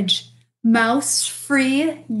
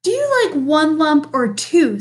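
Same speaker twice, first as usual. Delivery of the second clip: politely; 3 semitones higher, 4 dB louder than usual. Acted. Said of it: "said Bear most politely".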